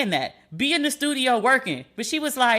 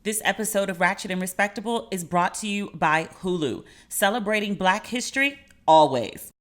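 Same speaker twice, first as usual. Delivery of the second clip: steady sponsor read, listing titles; 2 semitones lower than usual. Acted. Host reading the Hulu sponsor spot to listeners, ad read.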